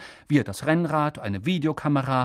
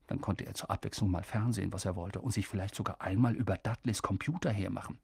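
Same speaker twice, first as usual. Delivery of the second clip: hopeful musing; 5 semitones lower, 8 dB quieter, faster than usual. A narrator's reading. Harry's hopeful thought.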